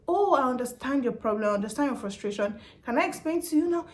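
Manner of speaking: sweet, patient, rising service tone; polite agent voice. Retold or imitated. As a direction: soothe the caller politely. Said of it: "customer care agent voice".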